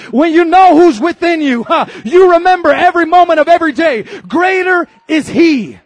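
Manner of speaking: rising, high-pitched preacher exhortation; full-force preaching. Real, not acted. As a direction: preach it with fervor and punched key words.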